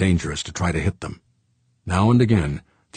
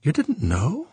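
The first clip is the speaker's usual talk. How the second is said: much higher French voice, bemused; bemused Frenchman; 10 semitones higher, slower than usual. Acted. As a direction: needle Fuchs with a bemused question. Saint Clair asking again.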